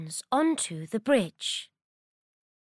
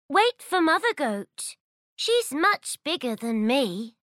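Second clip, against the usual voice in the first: high, clever goat voice; sly little goat; 5 semitones higher than usual. Acted. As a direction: outwit the troll, brightly. Baby Goat tricks troll.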